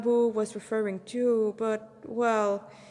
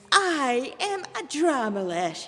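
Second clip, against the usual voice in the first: flamboyant demon announcing his name, slow; grand introduction with a flourish; 4 semitones higher, 3 dB louder, slower than usual. Acted. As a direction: present yourself like a showman. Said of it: "he introduced himself with a flourish".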